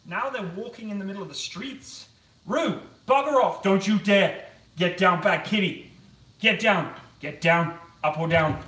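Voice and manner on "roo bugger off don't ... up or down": loud, sharp scolding yells at a pet; shouting at the cat. Real, not acted. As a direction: chase the cat off the counter, full voice. Yelling at the cat on counter.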